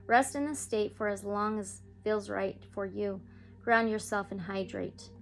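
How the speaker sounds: soothing meditation read; guided meditation. Acted. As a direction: lead listeners gently into calm. Leads a guided healing meditation.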